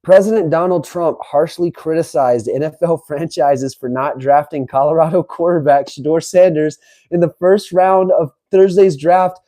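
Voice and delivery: ordinary talk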